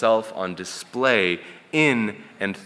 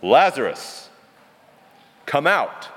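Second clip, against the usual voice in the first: big booming call, come out pitched higher; booming shout; 6 semitones higher than usual. Shown as a demonstration. Preacher acting Jesus shouting into Lazarus' grave, booming. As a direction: boom it across the tomb to wake the dead. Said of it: "This was a shout".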